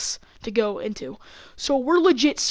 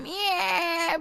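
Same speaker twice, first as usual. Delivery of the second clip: mock scream back; 7 semitones higher, 4 dB quieter than usual. Group screaming back at the kid, mock high screech. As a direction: mimic screaming back without full volume. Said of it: "we're all screaming at him".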